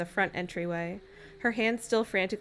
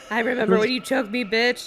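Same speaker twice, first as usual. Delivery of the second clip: fast, higher camp sneer; campy villain voice; 4 semitones higher than usual. Acted. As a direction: toss it off with a vampy sneer. Ad-lib joke in character.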